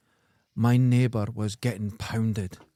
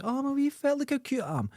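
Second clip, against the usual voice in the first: cutesy high voice; 12 semitones higher, 5 dB quieter, faster than usual. Retold or imitated. Voicing woman playing cute.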